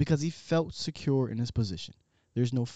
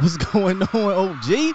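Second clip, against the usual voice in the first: loud, higher hype greeting; 7 semitones higher, 8 dB louder, slower than usual. Real, not acted. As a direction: hype it up like an intro. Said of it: "That's why I love you".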